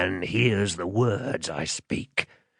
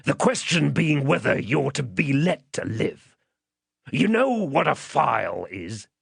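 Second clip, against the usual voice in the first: higher, threatening rough-man voice; menacing man; 5 semitones higher than usual. Acted. Man tilting the child back as he questions, menacing.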